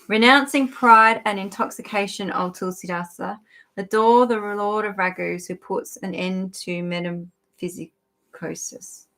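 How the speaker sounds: formal read-aloud, each phrase starting strong; recited devotional text; scripture reading. A narrator's reading. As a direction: read the verse out with measured emphasis.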